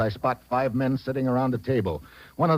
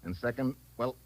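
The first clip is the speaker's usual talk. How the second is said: softer, drained sign-off; weary relief; 4 semitones lower, 8 dB quieter than usual. Acted. Detective leaves Robertson, drained and soft with relief. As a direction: exhale after the danger. Relieved exit after bomb.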